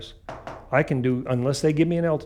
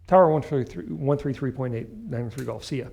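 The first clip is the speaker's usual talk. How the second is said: pilot over the radio. Retold or imitated.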